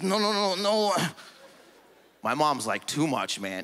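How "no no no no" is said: higher, insistent no's; hint of a stubborn Lebanese father; mock Arab dad. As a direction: wave it all away like a stern dad. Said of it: "Arab dad".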